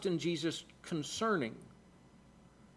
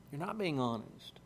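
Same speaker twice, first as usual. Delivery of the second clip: lower, much softer echo; quiet repetition; 5 semitones lower, 10 dB quieter than usual. Real, not acted. Preacher repeating the point to his listeners, low and soft. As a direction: drop the voice and let it sink in.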